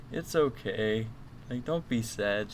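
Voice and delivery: soft, gently consoling, lightly acted; retold comforting. Man retelling how he comforted a crying woman, soft consoling.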